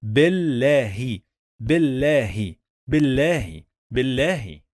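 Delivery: BILLAHI with a held double l; pause on the letter. Shown as a demonstration. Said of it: "we must pause on the letter".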